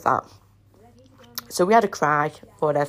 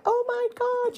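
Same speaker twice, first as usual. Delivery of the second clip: imagined excited gasp; slower than usual. Retold or imitated. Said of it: "everyone be like".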